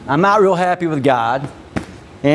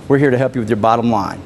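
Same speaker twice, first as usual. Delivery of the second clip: calm respectful pitch; 4 semitones lower than usual. Shown as a demonstration. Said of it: "if I want to say".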